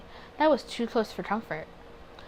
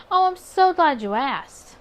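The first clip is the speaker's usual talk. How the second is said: sly delight; 6 semitones higher, 8 dB louder, slower than usual. Acted. Myra's sly delighted line.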